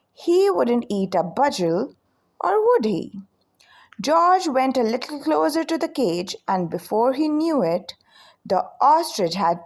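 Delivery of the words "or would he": a breathy, hushed aside, pitched up; whispered question. A narrator's reading. Narrator whispering to young listeners, hushed and curious. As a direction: lean in and whisper the doubt. Narrator wonders aloud, suspenseful.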